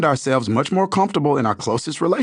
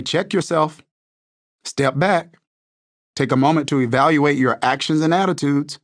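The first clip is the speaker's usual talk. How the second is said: confrontational challenge; 2 semitones higher than usual. Retold or imitated. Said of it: "It's confrontational".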